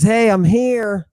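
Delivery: a slow, lightly voiced cheery greeting; drawn-out breezy hello; casual Jesus greeting. Jesus calling to the disciples in the boat, slow and light. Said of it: "And he says".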